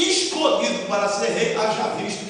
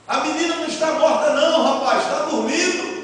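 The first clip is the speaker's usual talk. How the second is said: raised, firm declaration; spoken openly and loud; 6 semitones higher, 4 dB louder than usual. Retold or imitated. Jesus telling the mourners the girl sleeps, loudly. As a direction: announce it over the mourners. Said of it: "Jesus falou abertamente e alto".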